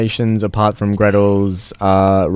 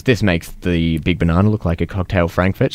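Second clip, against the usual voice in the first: flat monotone delivery, no energy; deadpan monotone, utterly bored; 2 semitones lower than usual. Retold or imitated. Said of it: "but in complete monotone".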